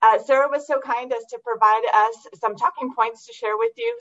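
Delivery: losing voice, hoarse and cracking; hoarse, voice giving out. Real, not acted. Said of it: "I'm losing my voice a little bit".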